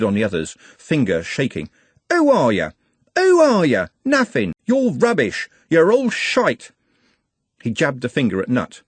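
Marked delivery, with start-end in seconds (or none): 2.1-2.7 loud jabbing shout on WHO; angry shout. Acted. Trev rounding on the others, loud angry shout. Trev repeats the taunt, building. 3.2-3.9 shrieking, much higher, WHO hit hard; screaming louder. Acted. Trev jabbing his finger at the gang, shrieking. Trev repeats the taunt, building. 4.0-6.7 high, shouted insults, the last one slow; raging. Acted. Trev raging at the whole gang, high furious shout.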